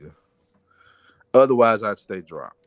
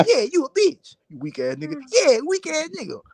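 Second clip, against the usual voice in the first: mock trash talk; 14 semitones higher than usual. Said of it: "Niggas be talking".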